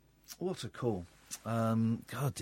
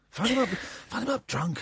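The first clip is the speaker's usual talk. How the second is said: laughing; 6 semitones higher, 4 dB quieter than usual. Real, not acted. Laughing while urging.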